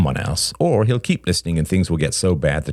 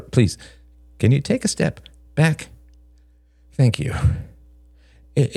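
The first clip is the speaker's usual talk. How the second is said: higher voice, hesitant and pleading; an uneasy man picking his words, pitched up; nervous Greg; 8 semitones higher than usual. A narrator's reading.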